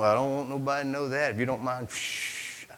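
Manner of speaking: quick, then a soft unvoiced shh; conspiratorial hush; hushing secret. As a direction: rush it, then hush them. Child hiding wrongdoing.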